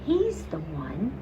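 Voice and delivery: a hint of a preaching vicar. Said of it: "with the voice of a vicar".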